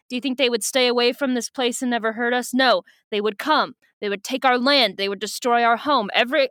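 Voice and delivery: earnest, lightly voiced old man's speech with a put-on accent; grandfather. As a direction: urge them on like a solemn elder. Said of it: "Yami's grandfather's like".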